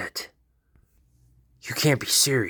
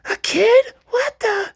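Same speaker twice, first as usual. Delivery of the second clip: much higher, loud, dopey grunting; dumb brute voice; 9 dB louder, slower than usual. Acted. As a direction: grunt like a dim-witted monster. Leatherface surprised.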